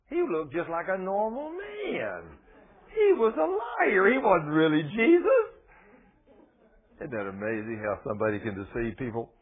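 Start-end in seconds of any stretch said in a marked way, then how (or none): 0.1-5.4 tearful. Real, not acted. Preacher tearful over false Jesus.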